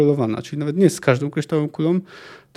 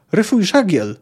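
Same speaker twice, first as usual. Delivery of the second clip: higher, urgent shouted order; acted yell; 4 semitones higher, 4 dB louder than usual. A narrator's reading. Captain orders his crew in the storm, acted yell. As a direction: call out the command as a narrator would. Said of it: "wrzasnął Asatiazy".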